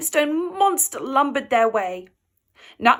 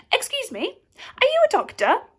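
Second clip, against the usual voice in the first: calling out; 12 semitones higher than usual. A narrator's reading. Ivor calls to doctor.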